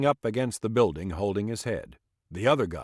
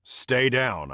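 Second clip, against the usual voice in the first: through gritted teeth; 4 semitones higher, 3 dB louder than usual. Acted. Police officer commands the drunk to stay down, through gritted teeth. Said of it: "I command between gritted teeth".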